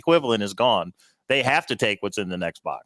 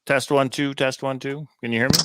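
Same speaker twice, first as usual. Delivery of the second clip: sounding underwater. Real, not acted. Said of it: "It sounds a little funky".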